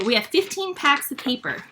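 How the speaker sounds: rushed, words run together; hurried, tumbling delivery; talking really fast. Real, not acted. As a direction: rattle it off quickly in excitement. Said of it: "Sorry, I'm talking really fast".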